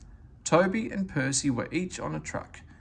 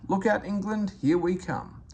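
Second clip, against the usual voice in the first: excited; 6 semitones higher than usual. Acted. Engines cheer departing.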